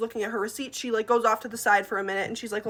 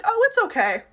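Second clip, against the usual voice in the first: very high, put-on reassurance; acted polite reply, pitched way up; polite brush-off; 10 semitones higher, 4 dB louder than usual. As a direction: wave off concern in a high-pitched voice. Retold polite brush-off repeated.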